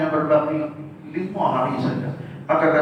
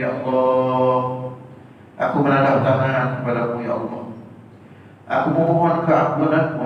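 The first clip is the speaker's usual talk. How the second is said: pleading prayer. Shown as a demonstration. Demonstrates a crying night prayer.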